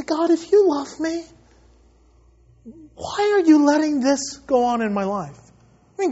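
imitated plaintive appeal. Voicing sufferers complaining to God.

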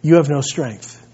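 a hint of God speaking gently to him; voice of the Lord. The Lord telling the pastor to be strong, low and gentle. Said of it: "that the Lord tells me".

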